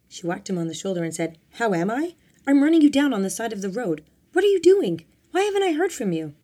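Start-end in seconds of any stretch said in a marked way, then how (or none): 1.5-6.3 high, loud, indignant questioning; upset scolding. A narrator's reading. Worried girlfriend confronting Glenn on the roadside, scolding. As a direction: fire the questions at him, climbing higher. Marianne scolds missing boyfriend.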